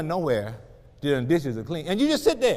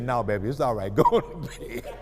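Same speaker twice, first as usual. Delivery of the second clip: gentle reassurance; 6 semitones lower than usual. Retold or imitated. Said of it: "He said".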